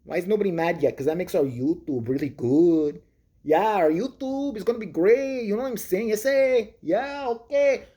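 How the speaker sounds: lightly voiced stereotypical Mexican auditor; mock auditor accent. Imitating the auditor boasting to his camera, mock accent. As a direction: play the smug cholo bragging about YouTube.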